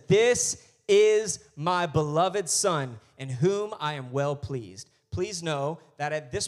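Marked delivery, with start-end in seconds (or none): 0.1-4.9 slow, measured voice of God; voice from heaven. Acted. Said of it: "a voice came from heaven".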